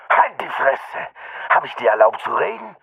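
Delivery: high, harsh snarled order; angry shout. A narrator's reading. Thug snaps at the beaten boy, angry shout. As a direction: bark at him to shut up. Attacker barks at victim.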